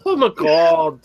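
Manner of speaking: put-on German Valley Girl accent. Mocking the brewer to friends, German Valley Girl accent. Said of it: "he's a German Valley Girl".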